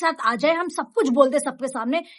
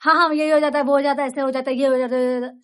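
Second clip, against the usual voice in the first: mock hurried rambling, words tumbling; rushed, jumbled talk; much faster than usual. Shown as a demonstration. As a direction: demo a fumbling rush of words. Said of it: "अगर मैं". (जल्दबाज़ी में गड़बड़ बोलना)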